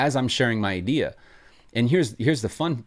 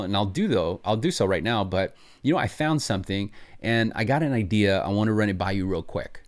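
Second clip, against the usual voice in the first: casual friendly pitch. Shown as a demonstration. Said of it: "sounds a little something like this".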